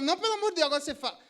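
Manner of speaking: hammed-up desperate husband; mock exasperated husband. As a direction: beg her to tell, exasperated. Husband begging in meme.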